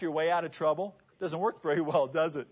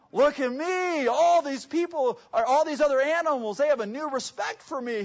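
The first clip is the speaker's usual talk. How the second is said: high, showy boast; excited strutting donkey; 6 semitones higher than usual. Acted. Donkey in a lion skin showing off to the animals, excited boasting. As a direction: crow it proudly as the strutting donkey. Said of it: "He's so excited".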